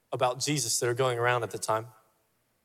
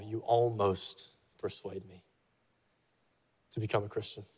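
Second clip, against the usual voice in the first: hushed reluctant reply; 4 semitones lower, 6 dB quieter than usual. Acted.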